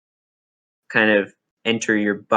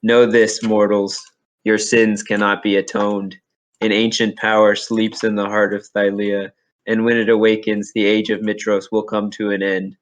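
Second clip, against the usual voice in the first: booming voice. Acted. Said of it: "You hear this booming voice in your mind".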